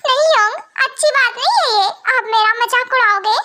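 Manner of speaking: whiny, wounded plea; tearful pleading. Acted. Younger brother begging not to be mocked, tearful pleading. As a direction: object like a teased crybaby. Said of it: "king ऐसे रोते हैं".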